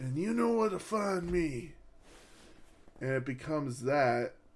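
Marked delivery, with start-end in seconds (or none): 0.0-1.7 higher-pitched southern drawl with some lift. Recounting a wrestling character's new persona, the speaker quotes him in a southern drawl. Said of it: "he's talking the southern drawl".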